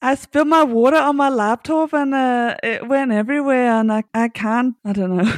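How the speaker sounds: tentative put-on Aussie accent; lightly attempted Australian accent. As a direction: have a halting go at Australian, giving up. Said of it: "needs her Australian accent".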